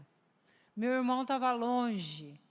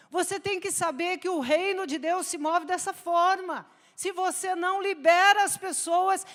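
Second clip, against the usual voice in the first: higher and much louder, fervent sermon climax; preaching at full force; 5 semitones higher, 9 dB louder than usual. Acted. Preacher urging the church to forgive debts, fervent and loud. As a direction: exhort the congregation, rising to a near shout.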